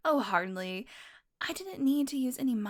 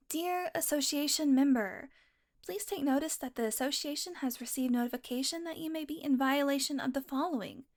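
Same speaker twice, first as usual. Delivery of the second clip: mock formal reading; 3 semitones higher than usual. Reads official letter in mock voice.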